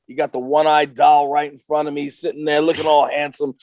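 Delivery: loud, high hyped-up wrestler; wrestler promo voice. Acted. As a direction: cut a promo like a pro wrestler. Guest's wrestler persona hype talk.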